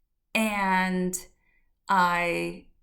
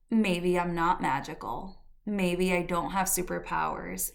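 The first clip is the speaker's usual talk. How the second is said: getting emotional. Real, not acted. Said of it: "I'm getting a little emotional".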